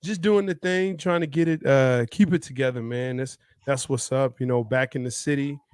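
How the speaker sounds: talking with a sinus infection; congested, blocked-nose voice; stuffy nose. Real, not acted. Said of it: "I have a little bit of a sinus infection".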